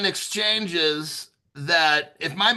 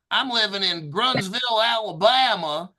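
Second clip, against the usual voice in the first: put-on Alabama accent; 4 semitones higher than usual. Host imitating someone who lives in Alabama, Southern accent. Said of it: "if somebody lives in Alabama".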